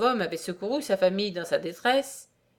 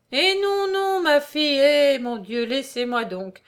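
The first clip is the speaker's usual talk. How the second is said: flustered protest; 6 semitones higher, 4 dB louder, slower than usual. A narrator's reading. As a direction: fend off an overjoyed hug. Old man smothered by grateful girl. (protestation affolée, voix aiguë)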